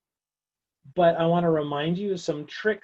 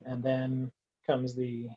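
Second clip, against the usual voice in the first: slow lead-in, then mock-cheery louder punch on "fun part"; sarcastic; 6 dB louder, slower than usual. Real, not acted. Teacher dreading the product rule derivatives, sarcastic. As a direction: draw it out with dry irony. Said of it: "He says sarcastically".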